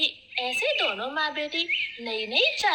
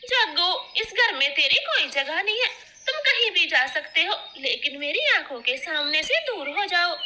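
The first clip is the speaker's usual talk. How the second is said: angry mother; 2 semitones higher than usual. Acted. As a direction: banish him from the house. Gauri throws son out.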